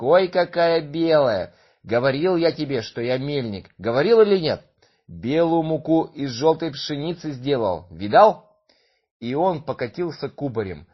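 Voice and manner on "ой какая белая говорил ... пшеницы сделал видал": loud boasting delight; excited miller. Acted. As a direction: crow with proud joy.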